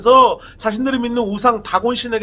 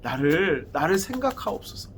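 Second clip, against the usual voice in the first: crying out in prayer. Retold or imitated. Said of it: "여호와께 이때 부르짖습니다".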